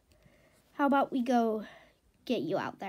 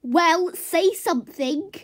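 louder, higher impatient prod; impatient demand; 5 semitones higher, 5 dB louder than usual. Acted. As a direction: demand a reply. Horse demands an answer.

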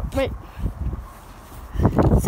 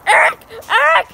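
loud, high calls of a name; calling out to Eric loudly; 5 semitones higher, 6 dB louder than usual. Real, not acted. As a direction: call across to a friend.

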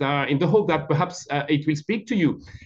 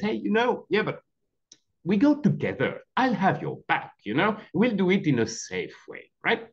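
patient uncle; 5 semitones higher, much faster than usual. Retold or imitated. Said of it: "the uncle is patient and says".

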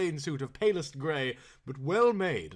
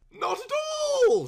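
breezy Earl; 8 dB louder than usual. Acted. Earl reply, very high.

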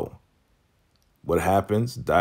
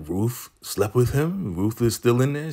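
shocked disbelief; 5 semitones higher than usual. Acted. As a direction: pitch it up and question it in disbelief. Acted disbelief at gossip.

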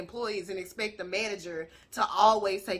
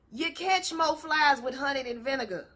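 reciting a proverb. Shown as a demonstration. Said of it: "Y'all say it with me".

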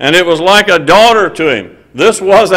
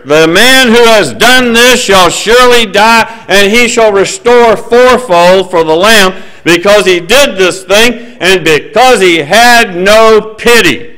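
David's angry oath; 6 semitones higher, 5 dB louder than usual. Acted. King David swearing against the rich man, with a loud, high fury. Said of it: "he's like an oath here".

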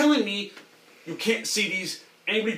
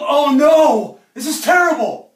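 dismayed cry; 4 semitones higher, 4 dB louder than usual. Pretend. Reacts to bad news in letter.

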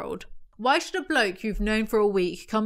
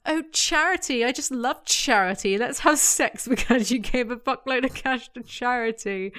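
mock gushing girl; 3 semitones higher than usual. Mocking a girl who loves charity.

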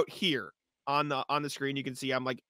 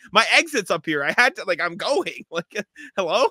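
exasperated rant; 4 semitones higher, 4 dB louder than usual. Retold or imitated. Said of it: "I'm like".

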